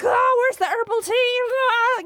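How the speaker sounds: overjoyed high squeal; giddy squeal. Retold or imitated. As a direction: trill out the question in delight. Giddy in the bathtub.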